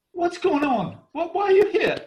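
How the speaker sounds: loud, high startled outburst; shocked shout. Retold or imitated. Wife startled when husband appears, shouting. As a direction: blurt it out in shock.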